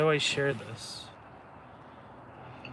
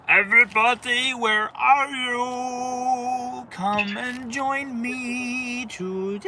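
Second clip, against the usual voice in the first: loud, high call to everyone; 6 semitones higher, 6 dB louder than usual. Acted. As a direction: call out loudly to viewers. Calling out to viewers.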